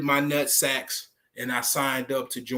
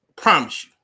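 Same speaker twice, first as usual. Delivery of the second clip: louder, hammering I promise you; emphatic promise; 6 dB louder, faster than usual. Real, not acted. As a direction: land it hard, like a vow. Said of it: "I'm pro-, I promise you".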